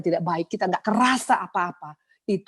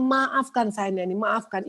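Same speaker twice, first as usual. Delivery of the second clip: high pleading, dropping at the end; beg, as if re-living it; retold tearful plea; 4 semitones higher, slower than usual. Pastor asks Neni to forgive her, acted tearful plea. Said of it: "Itu kita nangis-nangisan dua-dua".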